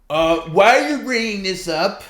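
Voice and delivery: high, loud whiny mimic; mock his whiny protest; imitating Perry. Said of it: "Perry was like".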